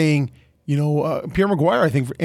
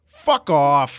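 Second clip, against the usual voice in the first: flat, level monotone. Retold or imitated. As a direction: say it dead flat, no rise. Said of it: "in his same monotone voice".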